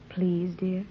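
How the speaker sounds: softly whispered plea; tender whisper. Acted. Woman soothing her worried husband in a tender whisper. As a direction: breathe it gently to calm him.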